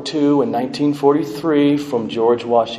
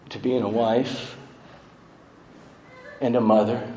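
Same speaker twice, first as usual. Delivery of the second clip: tender eulogy. Real, not acted. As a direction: let each phrase land gently. Eulogy tribute, slowed and softened.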